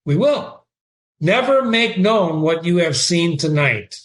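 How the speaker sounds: reading Shakespeare aloud with feeling; dramatic reading. Acted. Teacher reading Horatio to the class, dramatic reading. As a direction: give Horatio's line a lively read. Reads Hamlet and Horatio exchange.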